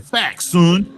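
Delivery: loud, put-on New York voice; mock New York woman. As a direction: imitate her talking like a tough rapper. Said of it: "She probably sound like Cameron when she talk".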